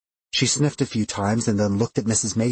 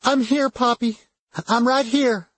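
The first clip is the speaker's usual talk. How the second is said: high, tender comforting voice; tearful reassurance; 12 semitones higher than usual. A narrator's reading. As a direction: soothe a scared child, pitched high. Tearfully reassuring a frightened child.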